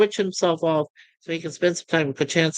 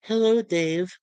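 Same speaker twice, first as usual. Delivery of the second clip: female voice; 3 semitones higher, slower than usual. Retold or imitated. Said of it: "I'll try to do my best female on this".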